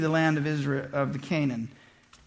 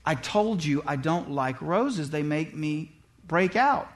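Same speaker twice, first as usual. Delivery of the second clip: annoyed wife; 4 semitones lower, 4 dB quieter, slower than usual. Retold or imitated. Wife rebuking the rose gift.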